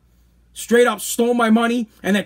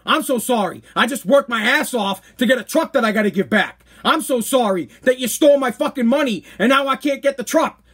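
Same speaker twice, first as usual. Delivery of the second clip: sarcastic apology; 3 semitones higher than usual. Retold or imitated. Throws mother's apology back at her.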